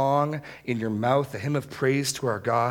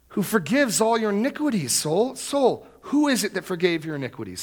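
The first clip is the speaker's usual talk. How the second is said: raised, insistent questioning; passionate self-preaching; 8 semitones higher than usual. Shown as a demonstration. Preacher as David quizzing his soul, passionate and insistent. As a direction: press your own soul for the answer. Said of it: "this is emphatic, this is passionate".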